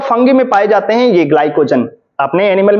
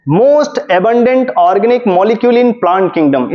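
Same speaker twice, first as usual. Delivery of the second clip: each word laid down very slowly; slow dictation; much slower than usual. Shown as a demonstration. Teacher dictating a key line to students, very slow. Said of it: "इस line को तो बढ़िया अच्छे से याद कर लीजिएगा".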